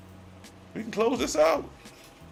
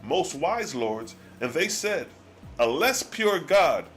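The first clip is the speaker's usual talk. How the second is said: solemn scripture reading. Acted. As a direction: let each old phrase land gravely. Reads Ahura's archaic reply.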